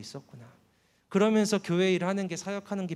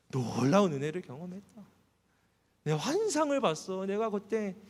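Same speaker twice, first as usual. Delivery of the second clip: mock-excited brag, climbing higher and higher; boastful bragging; 6 semitones higher than usual. Bragging to a friend at McDonald's, mock excitement rising high. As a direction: show off the vision, swept up in it. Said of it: "라고 막 자랑".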